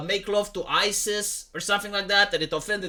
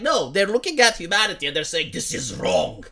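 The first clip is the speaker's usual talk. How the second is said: lower, sneering impersonation of a sanctimonious Democrat; mocking Democrat voice; 6 semitones lower than usual. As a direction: drop the voice low and mock their piety. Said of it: "the Democrats go like".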